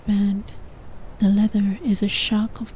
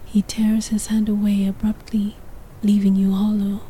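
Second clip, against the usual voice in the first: whispered narration; faster than usual. A narrator's reading. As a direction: whisper the story close to the mic. Whispered throughout.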